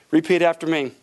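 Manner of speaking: low, calm voice of God. Retold or imitated. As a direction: speak like the still small voice. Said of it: "the still small voice of God".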